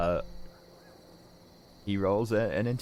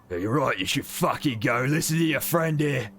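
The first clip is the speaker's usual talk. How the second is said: put-on Brelish accent; 8 semitones higher, 6 dB louder than usual. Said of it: "has a Brelish accent".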